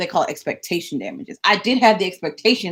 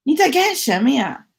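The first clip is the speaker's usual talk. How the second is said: mock stylist voice; 8 semitones higher than usual. Mocking the stylist's excuse.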